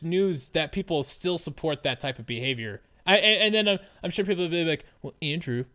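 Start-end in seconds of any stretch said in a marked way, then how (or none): 5.0-5.6 vague, failed attempt at a British accent; lower, half-hearted mock British accent; botched British accent. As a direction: imitate a Brit, with the accent drifting off. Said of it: "I don't know what accent that was".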